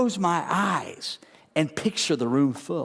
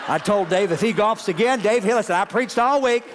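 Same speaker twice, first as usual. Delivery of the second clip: Joyce Meyer impression; 2 semitones higher than usual. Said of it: "Or Joyce Meyer".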